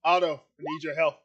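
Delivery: loud call across the room. Acted. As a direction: shout for help to the others. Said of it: "you hear him call out".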